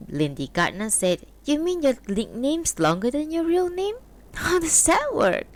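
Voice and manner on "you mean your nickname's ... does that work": a hint of a higher woman's voice, teasing; lightly voiced wife. A narrator's reading. Wife teasing her husband about his new friend, lightly voiced. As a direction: voice the wife a little higher, mildly mocking.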